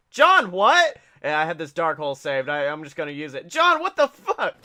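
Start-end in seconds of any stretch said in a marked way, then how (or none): 0.1-1.0 high, loud, incredulous yelp; mock outraged disbelief. Player to John mid card game, mock disbelief. Acts baffled Yu-Gi-Oh opponent. 3.5-4.5 high, loud incredulous protest; mock outrage. Player losing to John at cards, mock outrage.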